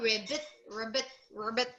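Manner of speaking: quick, soft frog ribbits. Shown as a demonstration. Teacher echoing the child's frog sound, ribbiting softly. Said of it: "that is how the frog says".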